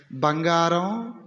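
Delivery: slow, drawn-out honey-voiced బంగారం; mock sweet talk. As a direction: coo it like a teasing lover. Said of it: "ఇట్ట మాట్లాడే".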